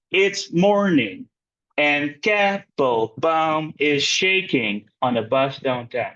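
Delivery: "it's MORning", slow and deliberate, each foot set apart; scanned for meter. Shown as a demonstration. Teacher scanning a poem line for class, slow measured stress on "it's morning". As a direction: draw out "KAP-pel-BAUM is SHAking" beat by beat. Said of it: "show you how to handle meter".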